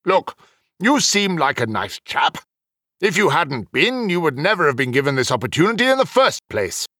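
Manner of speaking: letting him down gently; softened a bit. Acted. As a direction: ease off and explain kindly. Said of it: "Then he softened a bit".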